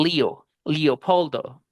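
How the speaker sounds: "Leo, Leopoldo" with the E said as an English long EE; American E as I. Shown as a demonstration. Teacher showing how Americans say Leopoldo, E turned to EE. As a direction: say "Leopoldo" like an American, Lee-o-POL-do. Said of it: "cambiar la E por una I".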